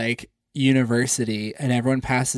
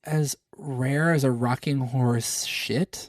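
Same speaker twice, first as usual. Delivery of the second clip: slow puzzled repeat; 4 dB quieter, slower than usual. Real, not acted.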